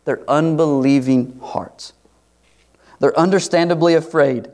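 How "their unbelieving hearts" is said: hushed whisper. Real, not acted. Preacher to congregation, a solemn whisper. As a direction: breathe the words out unvoiced.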